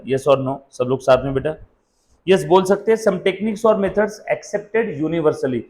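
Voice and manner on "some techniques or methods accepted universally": words spaced out very slowly for note-taking; teacher dictating a definition, very slow; slow dictation. Shown as a demonstration. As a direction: dictate it slowly so they can write. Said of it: "लिखना है तो लिख सकते हैं".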